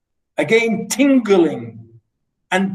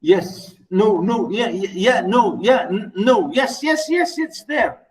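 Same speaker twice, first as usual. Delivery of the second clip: flustered yes; 3 semitones higher than usual. Acted. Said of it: "But he's just saying".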